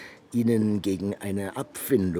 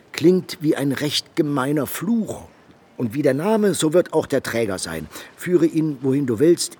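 imitating a scornful young woman, higher and louder; a disdainful beauty brushing off a suitor, higher and louder; scornful dismissal; 7 semitones higher, 6 dB louder than usual. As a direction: sniff at the name with a raised nose. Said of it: "zieht sie die Nasenflügel nach oben".

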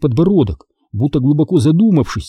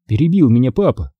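ordinary delivery

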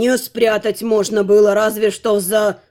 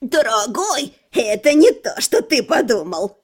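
a hint of giggly squeaky girl. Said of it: "писклявым голосом выдал Зарин". (писклявый голосок)

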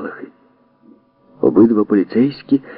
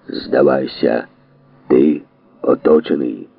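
slow, low, lightly voiced police order; megaphone voice; 5 semitones lower, slower than usual. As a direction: call it out through a megaphone. Police megaphone calls continue.

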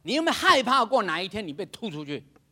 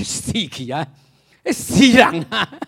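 voice of doubting reason; 4 semitones higher, 7 dB louder than usual. Retold or imitated. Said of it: "你的理智会告诉你".

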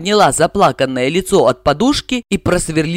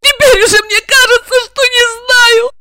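sorrowful sob; 6 dB louder than usual. A narrator's reading. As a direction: sob it out in grief. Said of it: "горестно всхлипнула Регина".

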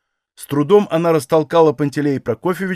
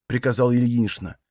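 ordinary delivery, nothing marked

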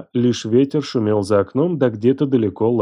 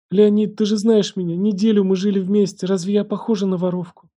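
put-on higher, begging young woman; pleading; 9 semitones higher than usual. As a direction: beg him to believe you. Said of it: "умоляюще протягивая руки".

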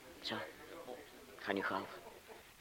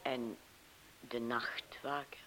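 hushed, unvoiced whisper; 2 semitones lower, 10 dB quieter, slower than usual. Young woman whispers to the man about the night watchman. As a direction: breathe the question out slowly.

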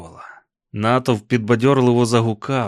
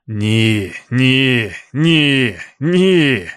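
piercing wail; 5 dB louder, much slower than usual. A narrator's reading. Roland crying out in terror at the bonfire, rising wail. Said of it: "викрикувати одне єдине заперечення".

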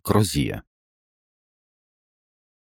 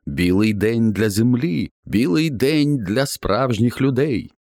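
raven shouting; 5 semitones higher than usual. Acted. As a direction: declare it to the world as the raven. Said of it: "Ворон кричав".

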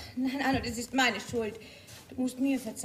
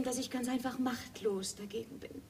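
hushed, softer whisper; whispered confession; 2 semitones lower, 7 dB quieter than usual. Acted. Whispering her helplessness to Arnold.

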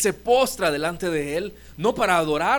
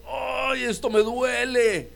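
grieving father crying out slowly; pained lament; 7 semitones higher, much slower than usual. Retold or imitated. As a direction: voice the father's pain, aching. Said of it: "como expresando".

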